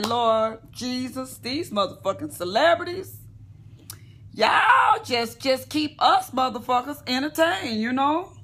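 exasperated plea. Retold or imitated. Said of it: "I say".

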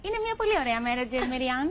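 mock dubbed soap line. Asked by the host to do her dubbing voice, mock telenovela heroine. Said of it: "θα με βάλεις τώρα να κάνω μεταγλώτηση".

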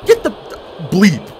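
slow, drawn-out shout; frustrated shout. Real, not acted. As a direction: yell it at the game. Raging at the game.

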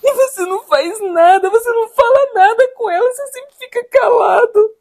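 hurt, crying complaint; tearful reproach. Acted. Wife to husband who never defends her, tearful reproach. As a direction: plead through tears at being left undefended.

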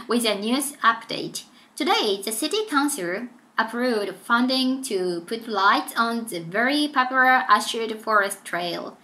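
slow, clear newsreader delivery; steady broadcast read for a listening test; news announcement read. Acted. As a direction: read it like a radio news bulletin. Reads news script aloud.

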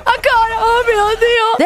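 high-pitched urging in a scare; frantic panic. Real, not acted. Streamer urging hits on the demon, frantic panic. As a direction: urge on the blows in alarm.

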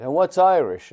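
put-on high, loud tough-kid challenge; imitating a street kid. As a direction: call out like a cocky New York teenager. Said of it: "one of the kids".

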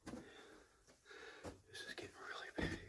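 slow awed whisper. Real, not acted. Awed whisper deeper in mine.

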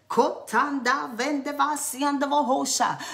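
rapid ecstatic tongues in a changed timbre; speaking in tongues. Real, not acted. Preacher breaking into tongues mid-sermon. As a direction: let the tongues flow.

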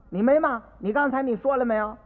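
stern father. Acted. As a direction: demand an answer from the boy. Father questions son sharply. (父亲大声追问)

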